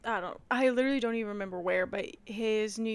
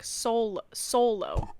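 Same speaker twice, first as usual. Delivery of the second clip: Pittsburgh solo; much slower than usual. Retold or imitated. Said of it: "the way they say solo".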